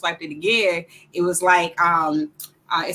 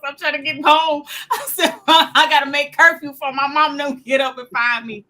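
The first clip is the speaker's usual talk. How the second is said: high pleading voice; 8 semitones higher, 6 dB louder than usual. Retold or imitated. Pleading to the cop.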